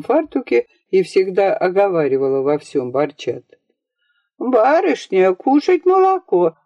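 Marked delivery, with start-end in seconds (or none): 4.4-6.6 put-on a light high nanny's call to the young lady; lightly voiced nanny. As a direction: call her in like an old nanny, sing-song. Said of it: "сказала нянька".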